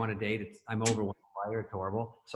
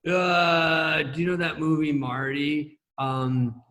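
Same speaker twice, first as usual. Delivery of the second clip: nervous, halting question with ums; Chris; much slower than usual. Retold or imitated. Nervous writer floundering through a pitch, halting. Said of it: "But he gets so nervous".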